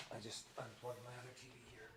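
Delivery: faint voice far from microphone; speaking away from the mic. Real, not acted. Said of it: "We can't hear you".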